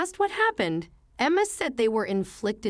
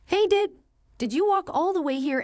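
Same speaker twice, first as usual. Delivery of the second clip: shocked question; 10 semitones higher than usual. Acted. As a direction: blurt it out in shock. Grandma shocked by midnight visitor.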